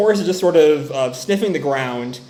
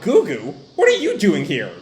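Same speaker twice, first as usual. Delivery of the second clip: higher-pitched surprised question, lightly acted; a touch of startled disbelief; mildly acted shock; 5 semitones higher than usual. Recapper as Fushi finding a friend here, shocked. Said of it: "Fushi's shocked".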